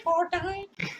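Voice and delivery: high hyped cheer, rising at the end; excited shout. Real, not acted. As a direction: cheer the name. Echoing the hype shout.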